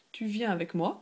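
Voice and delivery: tu viens avec moi said with the voice going up on moi; rising question. Shown as a demonstration. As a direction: lift moi at the very end. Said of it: "just go up at the end".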